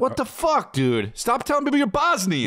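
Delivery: mock exasperated scolding. Mock scolding the Bosnian guy.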